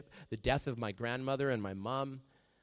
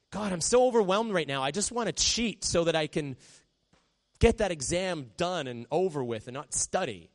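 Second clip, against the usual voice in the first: overwhelmed plea; 5 semitones higher, 5 dB louder than usual. Pretend. Overwhelmed student praying.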